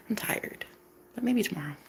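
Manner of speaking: very soft, near-whispered brush-off; unimpressed murmur. Retold or imitated. Woman putting off a proposal, unimpressed murmur. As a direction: let it drop quietly, barely bothered. Acted unenthusiastic answer to proposal.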